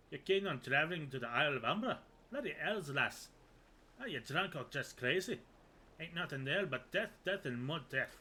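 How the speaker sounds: put-on rough pirate accent. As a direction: growl it like an old sea dog. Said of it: "Excuse my really poor accent".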